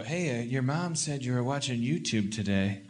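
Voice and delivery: hesitant, gentle dad voice; fumbling to explain gently; awkward dad talk. Retold or imitated. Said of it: "I'm gonna come sit on their bed and go".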